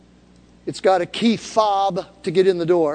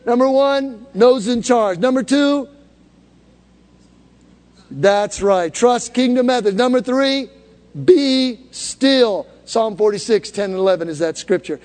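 loud, higher preaching voice; 4 semitones higher, 4 dB louder than usual. Acted. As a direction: preach the points with force. Preaching points to congregation.

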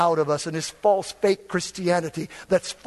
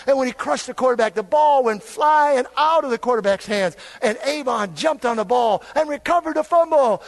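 louder, higher, fast telling of the sack; rising preacher excitement; excited play-by-play; 6 semitones higher, 3 dB louder than usual. Acted. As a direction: call the fumble like a fired-up fan.

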